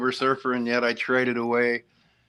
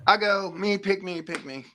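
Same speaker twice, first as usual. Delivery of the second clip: eager volunteer; 8 semitones higher than usual. Pretend. Volunteering to go next.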